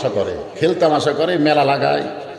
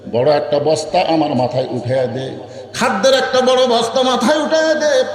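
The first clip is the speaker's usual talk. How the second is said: sermon storytelling. A narrator's reading. Preacher telling Omar's story to the crowd, melodic sermon storytelling.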